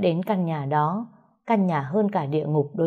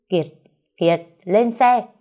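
loud, slow barked order; mother-in-law shouting; 3 semitones higher, 5 dB louder, slower than usual. Acted. Mother-in-law shouts at her son to get in the car. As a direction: bark the order, drawn out and loud. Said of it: "Tiếng mẹ chồng tôi quát".

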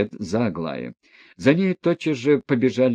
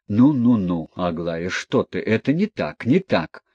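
frightened mumbling. Acted. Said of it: "испуганно бормотал".

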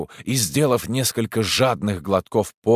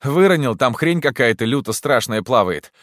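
babbling; 5 semitones higher, 4 dB louder than usual. Acted. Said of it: "лепетал Егор очевидный бред".

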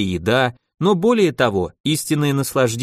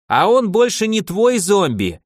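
caustic mimicry; 8 semitones higher than usual. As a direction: throw his line back at him. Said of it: "едко передразнил его архимаг".

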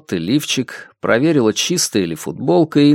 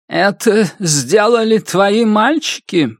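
harsh; 8 semitones higher, slower than usual. A narrator's reading. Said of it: "жёстко спросила старуха".

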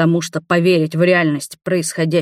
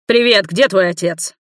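rough greeting; 2 semitones higher, 4 dB louder than usual. A narrator's reading. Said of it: "слишком грубо заговорил".

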